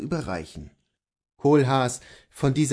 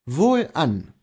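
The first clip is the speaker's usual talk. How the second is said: firm, slightly raised reply; Kohlhaas the husband; 4 semitones higher, 5 dB louder than usual. Acted. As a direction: answer your wife resolutely.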